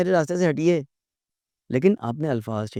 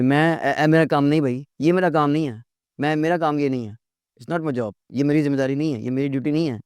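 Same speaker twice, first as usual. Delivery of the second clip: rude. Shown as a demonstration. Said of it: "ये नहीं कहना बदतमीज".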